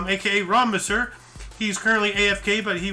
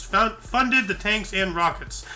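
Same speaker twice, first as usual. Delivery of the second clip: slightly winded, breathing hard; short of breath mid-read. Real, not acted. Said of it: "why am I out of breath".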